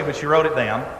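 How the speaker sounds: ordinary talk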